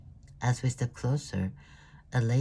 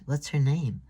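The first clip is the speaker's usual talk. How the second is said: higher, louder delighted question; cooing; 6 semitones higher, 5 dB louder than usual. Acted. Thea coos at the little one, delighted. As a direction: coo over the cute little girl.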